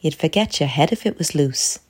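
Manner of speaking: voiced stage mother in character; Mom. Shown as a demonstration. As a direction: say it as a mother to her son. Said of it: "When I speak, I sound like this".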